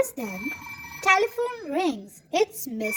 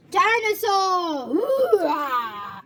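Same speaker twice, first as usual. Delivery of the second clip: shout; 2 semitones higher, much slower than usual. A narrator's reading. George shouting dinosaur.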